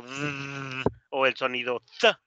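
buzzing Z, then TH as a short puff; teacher isolating Z and TH sounds; sound demo. Shown as a demonstration. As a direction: demonstrate a long buzzed Z and a quick TH. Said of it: "no tenemos el sonido".

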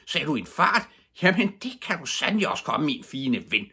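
high, loud indignant rant; storyteller's irate neighbour; angry shriek. A narrator's reading. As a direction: send the culprit packing furiously. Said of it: "skreg stemmen".

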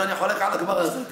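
half-laughing mock defiance; laughing retort. To his friend, refusing to go, laughing. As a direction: say it through a chuckle, cheeky. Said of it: "אמרתי לו".

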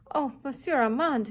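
urgent breathy plea; imploring whisper. A narrator's reading. Girl begging Armand to stop Paul, a pleading whisper. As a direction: beg him in a hushed whisper. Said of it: "implored Susie".

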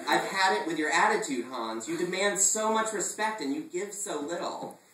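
enraged father laying down the law; furious father. Acted. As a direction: scold him with fury. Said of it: "red with fury".

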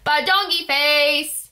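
wild sung nonsense with high squeaks; silly gibberish. Acted. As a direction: go completely goofy with the sounds. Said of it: "make silly sounds like".

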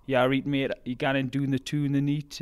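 broad, lively Geordie accent; Geordie dialect. Shown as a demonstration. Runner showing an American host his home dialect, broad Geordie. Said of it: "an example would be".

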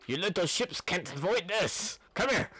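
shouting. Acted. Villain yelling at ships.

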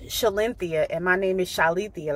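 wrong Shalinthia with an n before the th, then right Shalithia with no n; wrong name, then right. Shown as a demonstration. Correcting a mispronounced name, Shalinthia against Shalithia. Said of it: "somebody called me Sh".

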